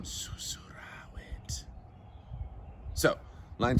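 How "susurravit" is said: drawn-out stage whisper. Acted. Teacher reading that he whispered in the ear, whispering. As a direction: whisper the word to act out its meaning.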